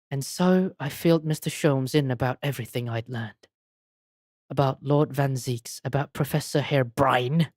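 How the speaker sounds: low, measured read-aloud voice; story narration. Acted. Player reads the hero's recap of events, low narration.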